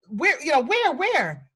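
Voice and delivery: mock-panicked little kid calling out; alarmed little kid. Little kid on the bed looking for the spider, high and frantic. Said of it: "So I stand up on the bed and I'm like".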